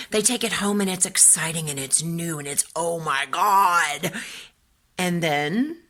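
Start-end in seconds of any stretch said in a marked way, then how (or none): 2.7-4.1 excited Oh my God. Retold or imitated. Kid thrilled by new toy.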